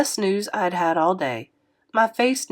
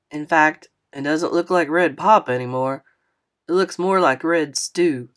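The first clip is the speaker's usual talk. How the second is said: lightly voiced older man. Narrator voices Mister Lewis.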